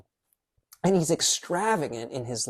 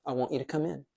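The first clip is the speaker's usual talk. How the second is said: tender invitation; 8 dB quieter, faster than usual. Retold or imitated. Father's invitation, softly.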